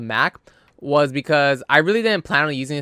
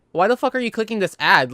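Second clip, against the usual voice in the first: exasperated yell; 8 semitones higher than usual. Retold or imitated. Yelling at mom over pop-up.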